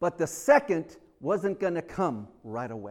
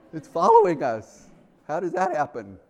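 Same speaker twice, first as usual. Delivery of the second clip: amazed exclamation; 6 dB louder than usual. Retold or imitated. Amazed at the following rock.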